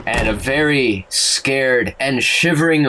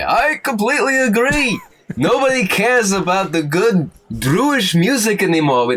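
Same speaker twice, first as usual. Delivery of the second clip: a much higher, excitable dragon complaining; 7 semitones higher than usual. Acted. Dragon joining in from across the hall, higher and eager. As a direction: gush like a fussy dragon who misses the old songs. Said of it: "you hear the voice of the dragon say".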